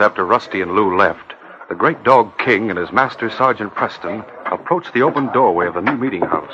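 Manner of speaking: steady radio narrator voice; story narration. A narrator's reading. Narrator setting the scene for listeners, in a steady announcer voice.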